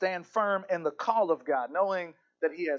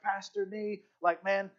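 higher-pitched, exasperated confession of failure; discouraged; 6 semitones higher, faster than usual. Acted. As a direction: act out a discouraged disciple pouring out his failings. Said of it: "He was so discouraged".

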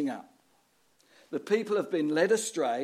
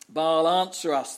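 a raised, slowed mock call to Baal; retold shout; 7 dB louder than usual. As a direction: prophets crying out to their god, a mild shout. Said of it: "they shouted".

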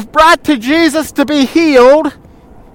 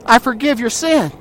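softer, plain and gentle; quiet, matter-of-fact forgiveness; simple forgiveness; 6 dB quieter than usual. Pretend. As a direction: say it simply, with no complaint. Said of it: "No, Jesus just said".

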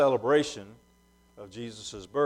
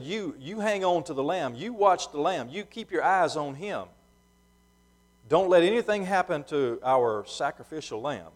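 earnest father's charge; 3 semitones higher than usual. Retold or imitated. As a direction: press each instruction on the son, lightly acted. Father instructs his son, retold.

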